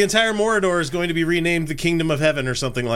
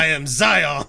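anime villain; slower than usual. Pretend. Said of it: "Should sound like an anime, anime villain".

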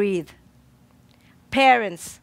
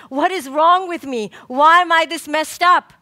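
mock scream, rising louder through the question; retold scream; 5 semitones higher, 4 dB louder than usual. Therapist retelling a patient's outburst: mild mock scream. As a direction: voice a patient's desperate outcry, half-performed. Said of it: "She screamed".

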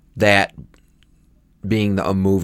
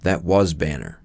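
lower, deliberate character voice; Thunderbolt; 4 semitones lower, 4 dB quieter, slower than usual. Retold or imitated. Co-host imitating the general naming Banner, low and deliberate. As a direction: drop the pitch for a weighty reveal. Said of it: "Thunderbolt's like".

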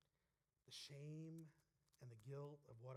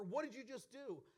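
high, loud demand from a pastor; scolding pastor; 8 semitones higher, 8 dB louder than usual. Retold or imitated. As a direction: call him out like an angry pastor. Pastor runs over scolding.

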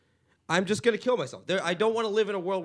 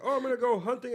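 slightly put-on higher boast; light, higher mocking quote; mocked would-be hunter; 5 semitones higher than usual. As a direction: imitate someone keen to hunt. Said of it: "people that are like".

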